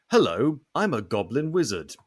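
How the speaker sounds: lightly voiced goblin wizard; a hint of goblin, swooping up and down. Shown as a demonstration. Player shows a friend the voice's variety, light goblin. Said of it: "wide variety. Like".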